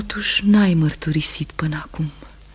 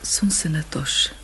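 soft whispered reassurance; hushed and gentle; 5 dB quieter than usual. Acted. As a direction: whisper it so guards won't hear. Wife reassures husband in prison.

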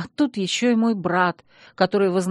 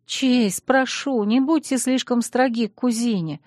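pleading; 5 semitones higher than usual. Acted. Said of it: "увещевала я".

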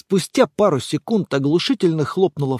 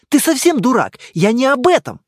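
higher, louder exasperated outburst; exasperated girlfriend; 8 semitones higher, 6 dB louder than usual. Acted. Girlfriend losing her temper, exasperated. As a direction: snap at him in frustration. Girl insults him.

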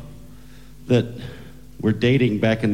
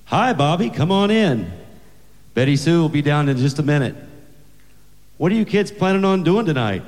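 higher, sing-song dad greeting; lightly voiced friendly dad; 6 semitones higher than usual. Father welcomes his daughter's date at the door, friendly dad voice. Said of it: "her father answered the door and said".

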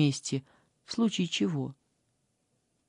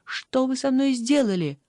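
higher and louder, a panicked shout; frightened cry; 6 semitones higher, 4 dB louder than usual. Acted. Liza, terrified, shouts at the strange girl in a higher, louder voice. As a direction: cry out in alarm. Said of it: "Бедная Лиза закричала".

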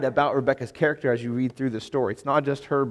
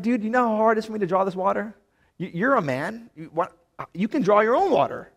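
pitched up, quick, whiny gripe; mock complaining; 6 semitones higher than usual. Imagined Rebecca grumbling at the servant, mock whiny. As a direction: gripe like a put-upon girl. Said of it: "She could have been like".

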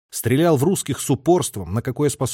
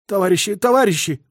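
choked, hoarse plea; 8 semitones higher, 3 dB louder than usual. A narrator's reading. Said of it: "удушливо хрипло и жутко выдавил".

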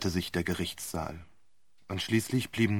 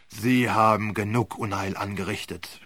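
grumbling. Acted. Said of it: "brummte Sir Wilfrid".

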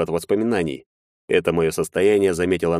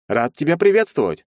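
higher, louder gushing greeting; cheerful nervous lawyer; 9 semitones higher, 3 dB louder than usual. A narrator's reading. Lawyer answering Maxim's call, falsely cheerful and high. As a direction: overdo the warm welcome.

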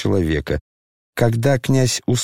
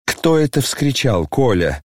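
ordinary delivery

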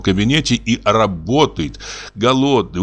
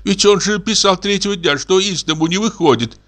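put-on 1 alarmed old woman, higher; 9 semitones higher than usual. A narrator's reading.

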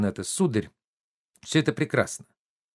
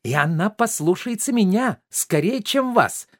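defiant shout; 7 semitones higher than usual. Acted. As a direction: fling it back at him. Maid shouts while dodging master. (служанка дерзко кричит, убегая от хозяина)

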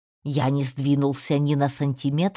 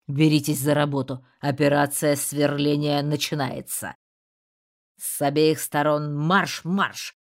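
sharp commanding tone. A narrator's reading. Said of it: "перешёл на довольно резкий приказной тон".

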